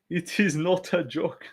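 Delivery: put-on slow, stereotypical French accent; mock French-accented English. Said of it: "doing a fucking normal French voice".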